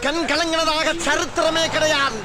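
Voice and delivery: high, choked-up protest; tearful denial. Acted. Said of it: "ஏன் ஏட்டையா அழுகுறீங்க". (அழுகையை மறைக்கும் உயர்ந்த குரல்)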